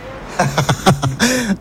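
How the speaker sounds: a real little laugh before answering; short laugh. Real, not acted. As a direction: chuckle at the joking question. Amused by the interviewer's joke.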